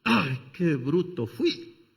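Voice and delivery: slow, groaning "what a fool I was"; a drawn-out sigh of regret; rueful self-reproach. Retold or imitated. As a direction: drag it out, palm to forehead. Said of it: "se lleva la mano a la frente y dice".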